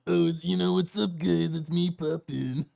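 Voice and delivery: casual mock streamer greeting; lightly voiced streamer intro; pretending to be the streamer greeting chat; imitating Poppin. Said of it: "they pretend to be Poppin, and they're like".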